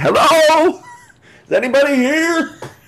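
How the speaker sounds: magically amplified booming call, very high-pitched and slow. A player casting Thaumaturgy calls out on the front porch, magically booming voice. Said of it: "make my voice boom".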